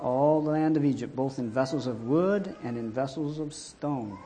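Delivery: loud, declaimed Bible verse; scripture reading. A narrator's reading. Preacher reading God's command to Moses, declaimed. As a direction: proclaim each phrase firmly and emphatically.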